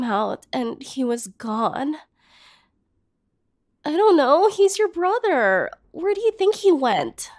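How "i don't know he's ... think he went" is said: higher, louder indignant burst; upset outburst. Acted. Jilted woman lashing out at her lover's brother, loud and hurt. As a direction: throw the question at him, wounded and angry.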